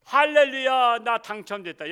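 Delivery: loud, high 할렐루야 cry of delight; joyful shout. Acted. Pastor acting joy at God's call, loud cry. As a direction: shout it like winning the lottery. Rejoicing at being called.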